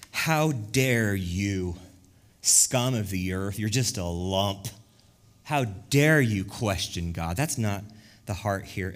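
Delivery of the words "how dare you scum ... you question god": slow, weighty how-dare-you reproach; mock scolding rebuke. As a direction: scold word by word, drawn out slowly. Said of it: "Paul is not saying".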